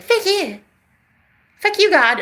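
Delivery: furious outburst at God; angry at God. Retold or imitated. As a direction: yell it up at God. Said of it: "And I was like".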